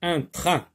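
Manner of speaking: teacher's slow, careful model of train; word held up as a model; model word said clearly. Shown as a demonstration. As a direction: say each sound of train clearly for the class. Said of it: "Dans le mot train, on entend le son un".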